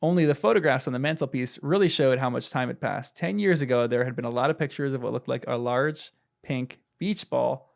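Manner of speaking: measured read-aloud from a novel; story narration. A narrator's reading. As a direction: read the passage out evenly to a listener. Reads the book aloud.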